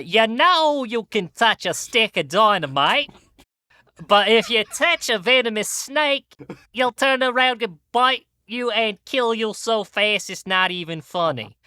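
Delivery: put-on Aussie accent with a Boston and Brooklyn mix; mock Australian accent. Warning a fan about snakes, in a mixed-up mock Australian accent. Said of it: "most offensive Australian accent I can".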